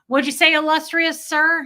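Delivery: playful high teasing; teasing joke. Retold or imitated. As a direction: needle him playfully. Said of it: "joke and elbow him".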